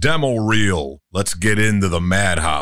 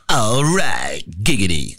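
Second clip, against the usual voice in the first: cartoon catchphrase. Shown as a demonstration. Quick character bit.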